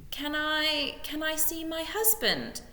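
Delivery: high, tearful plea; weeping. A narrator's reading. Widow begging the lord to see her husband, weeping. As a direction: ask through tears. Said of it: "wept Missus Beamish".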